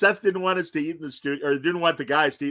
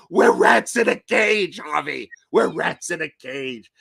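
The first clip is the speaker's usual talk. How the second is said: mock quote; 5 dB louder than usual. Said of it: "The station manager would go".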